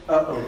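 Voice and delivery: uh-oh with a clear stop between the two vowels; glottal catch in uh-oh. Shown as a demonstration. Teacher modelling the catch in uh-oh for students. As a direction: break uh-oh with a little catch in the throat. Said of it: "it's a little voice catch".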